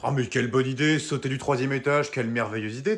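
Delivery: mock admiration, heavily ironic; sarcastic praise. Brother mocking his sibling's escape plan, sarcastic. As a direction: praise the idea with biting irony.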